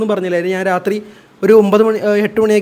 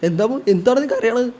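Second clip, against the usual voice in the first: soft, gentle question to a crying son; gentle fatherly concern; 3 semitones higher, 5 dB quieter than usual. Retold or imitated. Father softly asking his crying son, tender. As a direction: ask it tenderly, like a worried dad. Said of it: "ഈ എക്സ്പ്രഷനോടെ ചോദിച്ചു".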